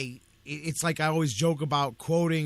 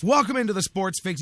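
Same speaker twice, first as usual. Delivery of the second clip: announcer welcome; 4 semitones higher, 5 dB louder than usual. Real, not acted. Radio host show intro.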